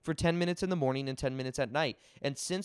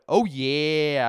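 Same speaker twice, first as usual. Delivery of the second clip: Jersey Shore catchphrase; 7 dB louder than usual. Retold or imitated. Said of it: "I would go around going".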